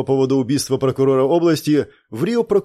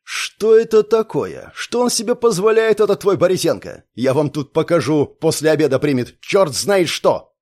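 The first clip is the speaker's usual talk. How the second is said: ominous voice; 3 semitones higher than usual. Acted. Colonel threatens the absent prosecutor, a menacing growl. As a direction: let each word drip with threat. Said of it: "продолжил очень зловещим голосом".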